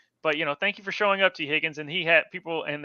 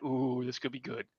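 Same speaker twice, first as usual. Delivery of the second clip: hushed hope; 3 semitones lower, 11 dB quieter than usual. Retold or imitated. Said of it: "this is what we're like".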